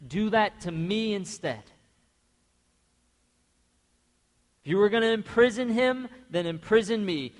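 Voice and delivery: urgent plea, pressing each offer; Judah offering himself. Retold or imitated. Judah offering himself to Joseph instead of Benjamin, loud plea. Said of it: "he tells Joseph".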